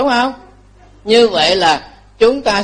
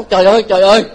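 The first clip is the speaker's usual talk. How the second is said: shocked cry; 6 dB louder, much faster than usual. Retold or imitated. Woman's shocked cry retold.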